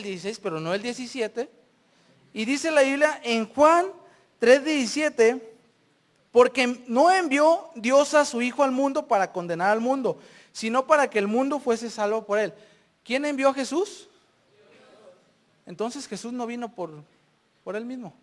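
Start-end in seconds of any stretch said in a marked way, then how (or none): 6.3-12.5 firm, slightly raised Bible recitation; scripture quotation. Acted. Preacher quoting John to the congregation, emphatic recitation.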